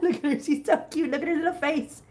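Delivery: sweet pet-adoring voice. Real, not acted. Cooing over a kitten's face.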